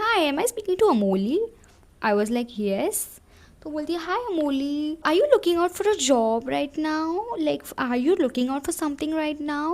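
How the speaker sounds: a hint of a high, chirpy caller; lightly mimicked recruiter. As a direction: play the sweet recruiter lightly. Recruiter girl on the phone. (हल्की सी मीठी phone वाली आवाज़)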